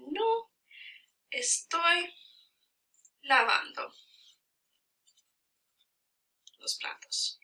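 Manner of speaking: slow Spanish, long gaps between words; word-by-word dictation. Shown as a demonstration. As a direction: spell out the sentence at writing speed. Writing out the corrected sentence.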